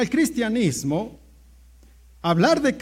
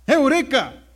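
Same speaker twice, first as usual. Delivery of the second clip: acted joyful outburst, higher and punched; excited exclamation; 5 semitones higher, 5 dB louder, slower than usual. Archimedes finds the answer in his bath, acted excitement. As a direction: cry it out like a sudden discovery. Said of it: "se emocionó tanto, estaba tan contento".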